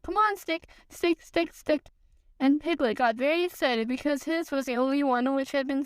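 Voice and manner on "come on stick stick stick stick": high eager chant to the stick; calling out eagerly. Acted. Young Roo calling to his stick, eager high voice. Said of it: "calling out".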